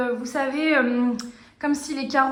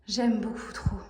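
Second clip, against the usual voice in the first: quiet; 3 semitones lower, 6 dB quieter than usual. Real, not acted. Repeats phrase, softer take.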